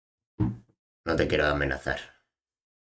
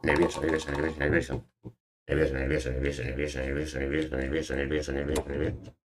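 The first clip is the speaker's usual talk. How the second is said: soft, running repetition trailing into a mutter; mock nervous; 3 semitones lower, 5 dB quieter than usual. Streamer joking about always being very nervous, muttered loop. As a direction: chant the word under your breath without stopping. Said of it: "soy alguien que está siempre muy nervioso".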